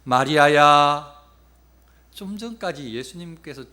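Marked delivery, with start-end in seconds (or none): 0.0-1.2 slow, loud call of a name; sustained, level-pitched calling; Jesus. Acted. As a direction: call her name out, long and drawn out. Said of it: "그때 예수님께서 이름을 불러주셔요".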